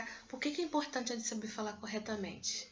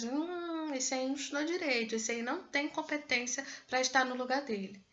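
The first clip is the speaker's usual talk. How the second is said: judgmental people; 4 semitones higher than usual. Retold or imitated. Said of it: "As pessoas".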